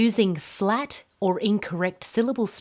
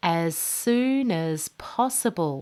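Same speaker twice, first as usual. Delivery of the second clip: up-down sing-song tune through "as soon as possible"; 3 semitones lower than usual. Teaching english pronunciation, the speaker repeats an example phrase: voice rising and falling. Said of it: "how the tone of my voice goes up and down".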